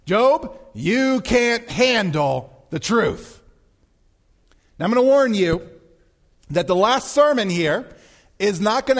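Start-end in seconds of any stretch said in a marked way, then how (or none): 0.0-3.4 slow, emphatic mock retort; God as movie colonel. God answering Job's demands, slow emphatic movie-line retort. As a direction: call the name high, then stretch the line. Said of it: "if God had said in Job".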